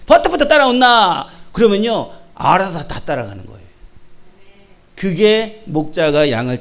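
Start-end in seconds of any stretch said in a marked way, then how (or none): 0.1-1.3 loud Gyeongsang dialect herding call. Acted. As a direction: shout for the sheep in Gyeongsang accent. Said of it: "목자가 가면요". (큰 소리의 경상도 사투리)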